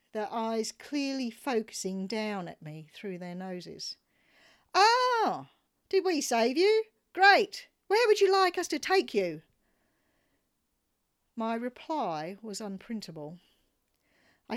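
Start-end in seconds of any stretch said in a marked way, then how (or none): 4.7-9.4 haughty voice, much higher and louder; mocking smug men. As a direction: send up the condescending husbands. Smug husbands mocked by narrator.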